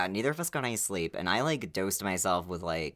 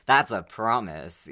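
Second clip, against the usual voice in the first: lightly put-on, slow pitch voice; a hint of salesman, measured and deliberate. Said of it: "That's my salesman voice".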